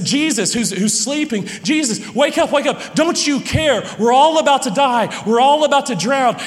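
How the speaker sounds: high, loud, frantic cries for help; terrified disciples shouting at the sleeping Jesus; panicked shouting. Acted. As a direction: yell like men about to drown. Terrified disciples waking Jesus in storm.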